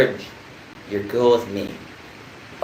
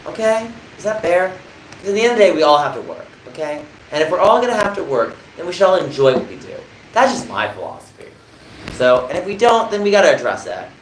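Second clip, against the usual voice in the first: much higher, louder voice; very high pitch; 8 semitones higher, 4 dB louder than usual. Real, not acted. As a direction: lift the whole voice up high. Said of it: "why is your voice so high-pitched?".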